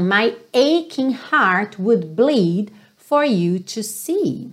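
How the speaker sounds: phrase sung-spoken very slowly; walk through the lyric slowly; slow lyric demo. Shown as a demonstration. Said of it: "Então". (frase bem devagar)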